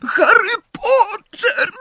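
tiny, very high drawn-out squeak; squeaky elf. A narrator's reading. Frightened elf greets Harry, high squeaky voice. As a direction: squeak it like a little house-elf. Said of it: "zaskrzeczał cichutko".

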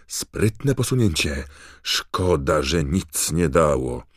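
arena commentator calling a clever move; Bagman's excited commentary. A narrator's reading. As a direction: call it out loudly, easing down in pitch at the end. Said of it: "komentarz Bagmana".

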